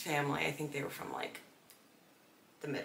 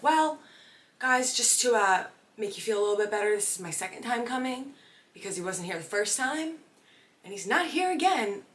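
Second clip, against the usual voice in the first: high, loud, overly bright; exasperated announcement; 5 semitones higher, 4 dB louder than usual. Retold or imitated. Telling the nearby family in a loud, high exasperated voice. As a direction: put on a brave cheery tone while annoyed.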